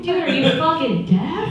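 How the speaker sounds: mock exasperated question, rising; retold annoyance. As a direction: act fed up with a pushy stranger. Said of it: "super annoyed".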